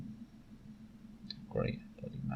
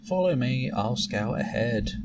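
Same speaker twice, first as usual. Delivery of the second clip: impatient mentor; 2 semitones higher than usual. Acted. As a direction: hurry the apprentice along. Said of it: "What should I do now?".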